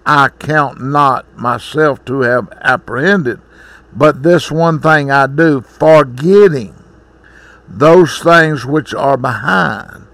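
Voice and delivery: measured, solemn Bible reading; scripture reading. Acted. Preacher reading the Bible passage to the congregation, measured and solemn. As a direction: read the verses like a preacher before his sermon.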